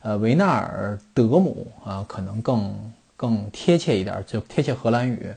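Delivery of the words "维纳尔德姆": 维纳尔德姆 said slowly with 德 in place of 杜; careful Dutch-style 维纳尔德姆; Dutch name pronunciation. Shown as a demonstration. Explaining to listeners the Dutch way, slow careful name. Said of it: "我刚才查了一下".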